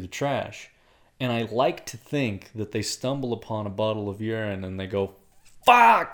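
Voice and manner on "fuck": high, loud cry of disgusted discovery; drawn-out, high-pitched swear; exclaimed dismay. Acted. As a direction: yell it out as a sudden curse. Acts out finding bottle of urine.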